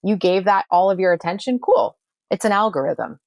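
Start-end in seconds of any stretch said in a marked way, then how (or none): 0.0-2.0 higher, louder breezy voice, Cool jumping very high; the universe replying. Acted. The universe answering someone's worries, breezy and much higher. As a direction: play the universe casually granting whatever gets attention. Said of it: "They're just saying".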